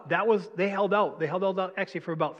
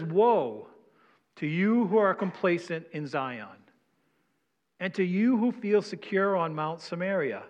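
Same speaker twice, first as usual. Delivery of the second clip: measured pulpit reading of Amos; scripture reading. Acted. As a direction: read the prophet's warning aloud to the congregation. Reads scripture passage aloud.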